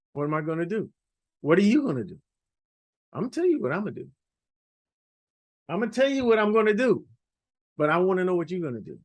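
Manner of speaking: put-on singsong Yiddish accent, teasing the class. Playful Yiddish-style rhetorical patter.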